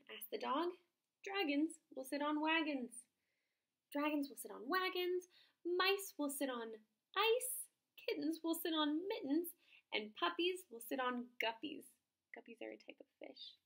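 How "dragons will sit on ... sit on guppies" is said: higher, slow sing-song frog voice; a pleased frog showing off his rhymes, slowly; proud frog. Acted. Frog boasting rhymes to the dog, higher and slow.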